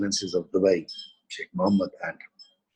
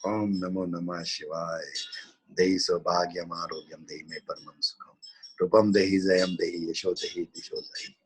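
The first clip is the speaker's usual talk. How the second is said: steady chanted recitation; mantra recital; 3 semitones lower than usual. Acted. Teacher reciting a mantra for the class, chant-like.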